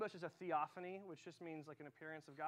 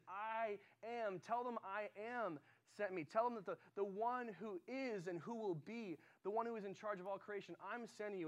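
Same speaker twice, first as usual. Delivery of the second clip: higher, measured proclamation as God; God's declaration; 4 semitones higher than usual. Retold or imitated. God sends Moses out, proclaiming who He is. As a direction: declaim it with rising weight. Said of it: "And then later he says".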